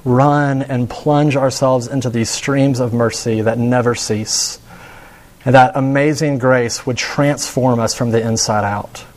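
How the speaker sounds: hushed prayer fading to amen; closing prayer. Acted. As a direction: pray over the congregation gently.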